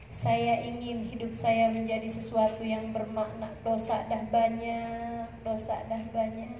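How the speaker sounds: slow, subdued confession of a preacher; solemn reflection. Acted. Voices a repentant reflection. (renungan lirih dan perlahan)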